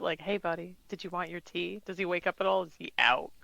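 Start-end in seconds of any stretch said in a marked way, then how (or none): 0.2-1.8 gentle. Acted. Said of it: "kinda gently push his shoulder".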